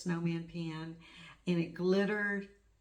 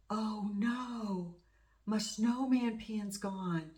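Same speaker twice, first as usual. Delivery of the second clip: slow, higher voice of sudden dismay, a touch put on; telling how she found her pin gone, slow mock dismay; 4 semitones higher, much slower than usual. Retelling losing her pin.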